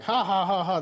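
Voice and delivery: loud mock "ha ha" laughing; imitated laughter. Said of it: "They're all laughing".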